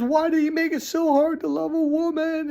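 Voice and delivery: high-pitched, tearful mock wail; imitated crying. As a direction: act out a father crying, voice pitched right up. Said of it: "he was just crying".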